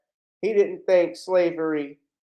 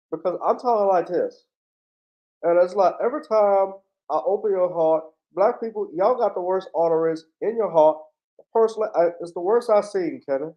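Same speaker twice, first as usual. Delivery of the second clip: mock Barkley as doctor. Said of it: "is this the man that you want talking like this".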